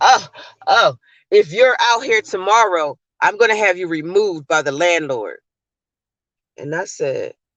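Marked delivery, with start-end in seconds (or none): 0.0-5.4 mock haughty, snotty tone full of attitude. Retelling a vendor argument, imitating someone with an attitude. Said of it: "he gets an attitude and he says".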